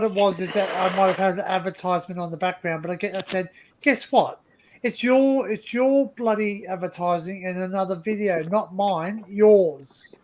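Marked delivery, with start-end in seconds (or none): 3.8-10.1 retold indignant comeback, stressing whose fault it is; mildly heated retelling of a complaint; indignant retort. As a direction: throw the blame back, punching the last word. Retells indignant reply to YouTube.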